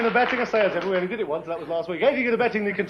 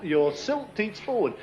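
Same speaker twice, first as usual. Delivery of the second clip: slow, words round a mouthful; mouth full; 3 dB quieter, slower than usual. Real, not acted. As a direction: talk through a mouthful of foam. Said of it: "it's not easy to talk with a mouthful".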